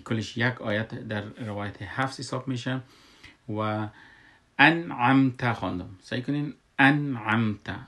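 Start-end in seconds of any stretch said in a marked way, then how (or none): 4.6-5.5 انعمت with a clear, vowelless n and m; sukun on nun. Shown as a demonstration. Teacher shows the sukun, انعمت articulated firmly as an-amta. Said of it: "نون سکون کردم". 6.8-7.8 انعمت said "an-amta", n and m unvowelled; sukun on mim. Shown as a demonstration. Teacher has learners try it, انعمت with crisp stopped consonants. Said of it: "میم سکون کردم".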